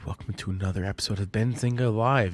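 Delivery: low, hushed radio host; soft late night DJ voice. Pretend. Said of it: "You guys like my, uh, late night radio voice?".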